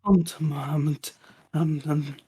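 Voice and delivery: quiet, halting, faltering repetition; trying to hold it together; dazed stammer. Acted. Shaken character repeats his own name.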